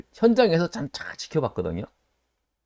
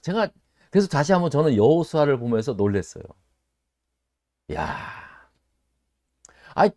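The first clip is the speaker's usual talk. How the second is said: ordinary delivery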